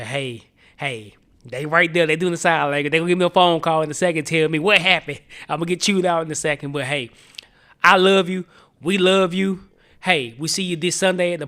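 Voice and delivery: calling out. Real, not acted. Shouting out to the crowd.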